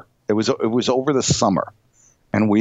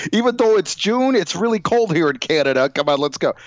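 higher, whiny plea to be let in; mock drunk guy; 6 semitones higher than usual. Drunk guy at the door begging, a hint of whine. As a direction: beg to be let in, lightly hammed.

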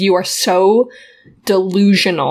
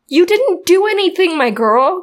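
mock comforting; 9 semitones higher than usual. Comforting the heroine in jest.

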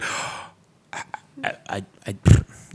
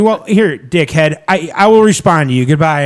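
louder, snippy mock comeback; mock angry retort; 6 dB louder than usual. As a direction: snap back at him in mock anger. Imagined retort to partner.

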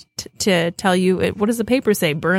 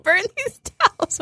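high, slow laughing mock voice; high laughing slow quote; laughing imitation; much slower than usual. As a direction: quote her while cracking up. Laughing retelling of friend.

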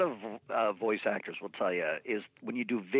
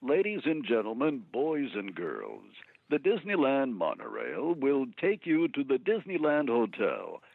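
Disneyland announcer. Shown as a demonstration. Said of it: "Disneyland voiceovers".

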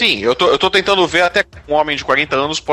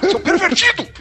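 high mock shriek. Mocking answering Lúcio's call.

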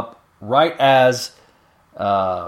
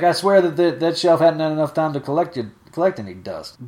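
Miss Nelly's dialect; 5 semitones higher than usual. Acted. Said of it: "adding this accent".

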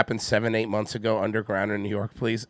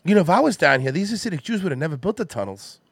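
Mark Wahlberg; 4 semitones higher than usual. Acted. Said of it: "impression of a concerned citizen Mark Wahlberg".

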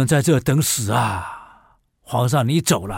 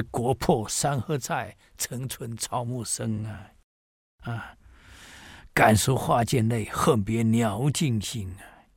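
slow, mournful classical verse reading; slow mournful recitation of Tang verse; poem recitation; 4 dB quieter, slower than usual. Acted. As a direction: intone the lines slowly, like a lament.

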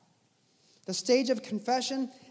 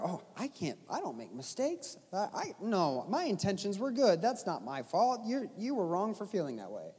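defensive proud person; 5 dB quieter than usual. Retold or imitated. Mock prideful excuses.

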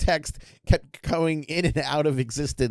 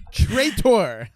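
joking accusation; 6 semitones higher, 5 dB louder than usual. Pretend.

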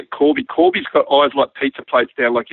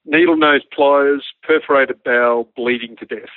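slow start, as if noting each item; writing it down. Retold or imitated. Pilot noting injuries in his notebook, writing it down. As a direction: dictate to yourself while writing. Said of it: "So I'm writing".

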